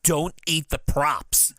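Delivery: slow, drawn-out mock telling-off; imitating an exasperated scolding. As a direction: scold him word by word, playfully. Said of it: "Leo has to scold him".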